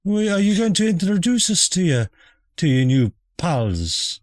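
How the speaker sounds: high, prim mother voice; posh mother voice. Acted. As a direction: play the prim, nosy mother.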